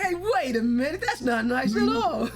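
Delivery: laughing, drawn-out mock protest; mock indignation. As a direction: object playfully, as if just catching the insult. Acting out offended reaction to insult.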